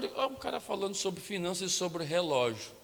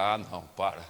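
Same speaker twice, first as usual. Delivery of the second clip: laughing protest; 10 semitones lower than usual. Retold or imitated. Protesting God's request, laughing.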